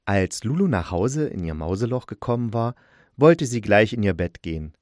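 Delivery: storyteller reading with a mysterious turn; story narration. A narrator's reading. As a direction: build toward the strange glow in the corner.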